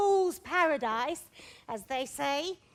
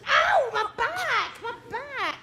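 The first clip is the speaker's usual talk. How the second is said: groaning in pain; 4 semitones higher, slower than usual. Acted. Nurse complains of aching back.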